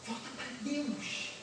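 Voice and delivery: tender plea. Real, not acted. Repeated plea, slower softer.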